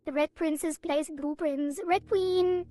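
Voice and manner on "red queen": emphatic correction. Real, not acted. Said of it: "I said Red Queen because I'm not a princess".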